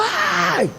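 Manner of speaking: imitated scream. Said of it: "gente gritando".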